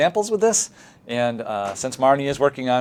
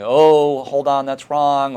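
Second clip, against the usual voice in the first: teacher catching a mistake; 3 semitones higher, 7 dB louder, much slower than usual. Shown as a demonstration. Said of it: "We don't wanna be sort of saying".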